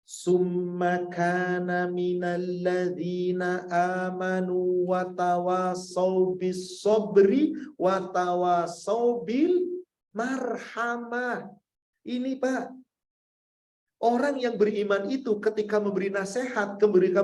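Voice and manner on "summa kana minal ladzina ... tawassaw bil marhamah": slow, chanted Arabic recitation; slow melodic Quranic chant. Acted. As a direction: draw every syllable out in recitation.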